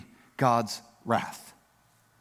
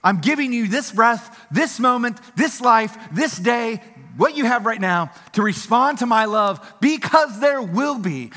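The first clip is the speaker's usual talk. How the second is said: God's voice pleading; 4 semitones higher than usual. Retold or imitated. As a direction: speak as God, pressing and urgent. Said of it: "he's saying".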